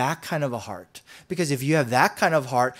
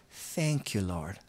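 grateful prayer; 5 semitones lower than usual. Retold or imitated. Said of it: "what if we just said".

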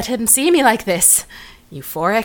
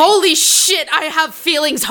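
shocked outburst; 6 semitones higher than usual. Acted. Realising she has feelings.

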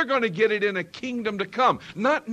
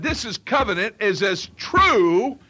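booming scripture quote; 3 semitones higher, 4 dB louder than usual. Acted. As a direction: declaim it like a divine vow. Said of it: "he said".

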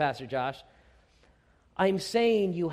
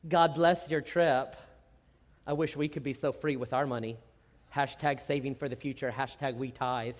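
sarcastic comment; 3 semitones lower than usual. Retold or imitated. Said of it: "that sadness can turn into sarcasm".

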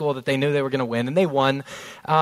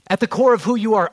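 raised higher and louder, fast; louder challenge; 5 semitones higher, 4 dB louder, faster than usual. Real, not acted. Preacher pressing the congregation, louder and higher. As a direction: call it out to the room. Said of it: "repeated phrase, quiet then loud".

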